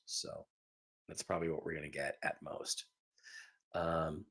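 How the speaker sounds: talking while chewing ice; words round a mouthful of ice. Real, not acted. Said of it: "we hear you chewing the ice".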